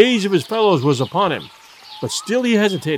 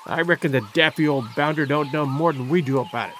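growling sailor; 3 semitones lower than usual. A narrator's reading. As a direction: grumble it with a sneer. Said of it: "growled the rat-faced sailor".

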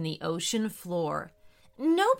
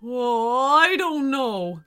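slow, doubtful whale; hesitant and unsure; 2 semitones higher, 6 dB louder, slower than usual. A narrator's reading. Reluctant whale.

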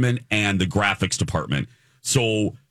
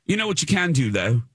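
put-on British accent; 6 semitones higher than usual. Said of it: "a British set guy".

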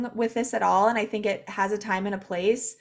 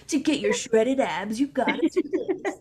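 pumped gym bro voice, pitched up; 4 semitones higher than usual. Retold or imitated. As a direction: hype it like a gym bro coach. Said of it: "I love your bro voice".

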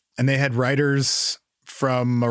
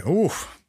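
hard landing oof; 8 semitones higher than usual. Real, not acted. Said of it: "Excuse me".

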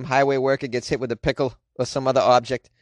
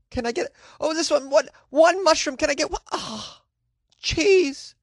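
whiny pizza man; 8 semitones higher than usual. Pretend. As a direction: moan about cheese in a high whine.

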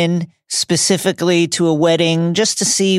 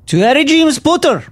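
formal, louder will reading; official reading a will; 9 semitones higher, 4 dB louder than usual. Acted. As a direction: announce it like a minister.

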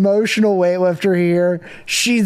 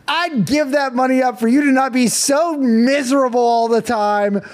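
mother venting years of frustration at her husband; mom losing it; 5 semitones higher than usual. Retold or imitated. Wife finally snaps at joyless husband, exasperated high outburst. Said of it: "Mom ... loses it on Pete".

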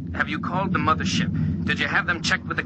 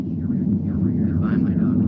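whispered goodbye; 8 semitones lower, much slower than usual. Acted. Final farewell over the radio.

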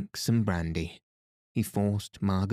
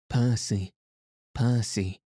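a touch of panic in the calling, only slightly raised; a hint of a frantic cry for her husband; mild hysterical shriek; 2 semitones higher than usual. A narrator's reading. Wife calling her lost husband across the beach, mildly frantic. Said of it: "she shrieked hysterically".

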